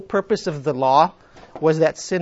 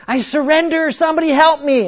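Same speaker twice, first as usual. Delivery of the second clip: higher pleading cry; desperate surrender; 10 semitones higher, 7 dB louder than usual. Acted. Addict surrendering to God, higher pleading. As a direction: beg for help. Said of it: "And she says".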